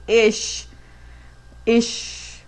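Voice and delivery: ish with an English sh ending; ish, sh instead of the German ch; dreaded ish. Shown as a demonstration. Teacher mocking her pet peeve ish. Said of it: "I hate it when people say".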